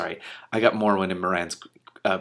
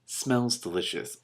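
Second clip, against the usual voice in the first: slow, savouring delight; delighted aside; 4 semitones higher, much slower than usual. Real, not acted. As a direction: savor the thought of the smell. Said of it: "I love this".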